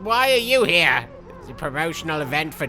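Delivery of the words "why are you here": high, loud startled yelp; startled squeal; mock surprise. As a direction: jump as if caught off guard.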